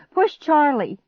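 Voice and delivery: high, loud urgent command; screamed order. A narrator's reading. Girl orders stepbrother to push, screaming. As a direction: yell it while straining. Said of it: "I screamed".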